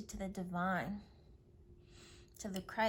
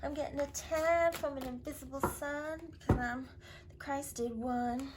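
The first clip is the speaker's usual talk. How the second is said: smug serene woman; 5 semitones higher than usual. Retold or imitated. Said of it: "sitting in peace like".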